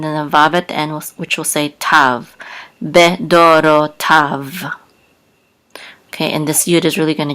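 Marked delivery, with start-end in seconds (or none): 2.8-4.6 "Be, do, ro, tav" in separate syllables. Shown as a demonstration. Teacher building up a Hebrew word, syllable by syllable. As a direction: sound out "Be, do, ro, tav" piece by piece.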